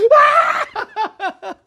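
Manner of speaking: very high, loud whoop into laughter; shrieking whoop of laughter. Shown as a demonstration. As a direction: let out a crazed joyful whoop. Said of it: "이렇게 제가 웃듯이".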